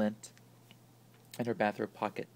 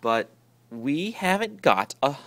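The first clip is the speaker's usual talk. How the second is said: protested; 8 dB louder than usual. A narrator's reading. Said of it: "protested Alice Jane".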